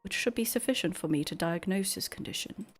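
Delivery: a hint of a prim, precise clone; lightly voiced clone. A cloned assistant offers to diagnose Master Papu, lightly formal.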